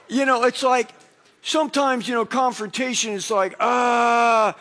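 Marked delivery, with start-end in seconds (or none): 3.6-4.5 exasperated "ah". Acted. Acts out dread of confrontation.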